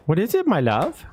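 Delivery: sweet high voice for a cat who wants attention; pet talk. Real, not acted. Cooing to the cat.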